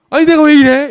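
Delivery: high, loud burst of dismay; alarmed self-reproach. Retold or imitated. Recruit to himself after blurting it out, alarmed. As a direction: act out shock at your own mouth. Acts shock at own blurted answer.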